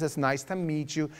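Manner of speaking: lightly imitated well-off parent; a hint of Long Island parent; affluent parent. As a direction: play a parent making polite introductions. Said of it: "they talk like this".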